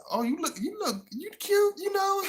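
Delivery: high, soft cooing flirt; hammed-up sly flirting; mock flirty woman. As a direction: sweet-talk him up high. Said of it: "she like".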